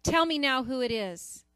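high, loud outburst of disbelief; hammed-up royal outrage; outraged demand. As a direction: demand the name like an indignant king. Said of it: "David was outraged".

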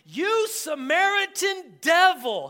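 loud, high, drawn-out accusing shout; upset retort. Acted. Angry crowd retorting to Jesus, upset and shouting. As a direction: hurl it as an indignant, acted insult. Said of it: "They're talking to Jesus like this".

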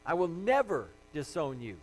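mildly emphatic retold vow; emphatic insistence. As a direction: insist firmly, as a loyal disciple quoted. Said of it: "He insisted emphatically that".

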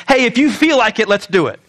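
mock offhand invitation; casual suggestion. Preacher mimicking what Scripture never says, casual suggestion. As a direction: lightly toss it out as optional. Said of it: "Not one time in Scripture does it say".

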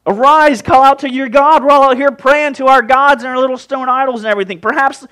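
loud, high, pressing plea; urgent captain's order. Acted. Captain urging sleeping Jonah to pray, loud and urgent.

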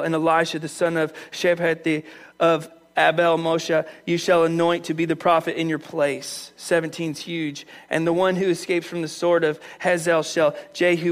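low, even recitation; scripture reading. Acted. God instructing Elijah, read as scripture.

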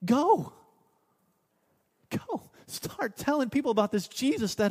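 ringing preacher's command; forceful command. Acted. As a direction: fire it out as a commission. Climactic command to the congregation.

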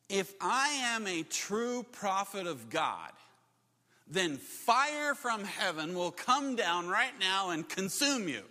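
slow, measured pronouncement; plain declaration. Acted. Elijah answers the soldiers at his door, plain declaration. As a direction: state it deliberately, word by word. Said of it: "He says to him just plainly".

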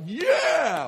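high loud shouted yeah; mock cheer. Pastor mimicking a churchgoer cheering on cue, shouting. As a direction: fake a big church cheer. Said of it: "I was like".

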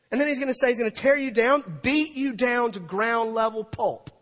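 high, loud, hard-hitting preacher; full-force preaching. Acted. Preacher retells the coming destruction, full-force preaching. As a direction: hammer home the warning.

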